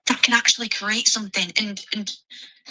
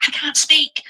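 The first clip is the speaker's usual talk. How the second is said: imitating Mark Goldbridge; Mark Goldbridge impression; 7 semitones higher, slower than usual. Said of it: "impression of Mark Goldbridge".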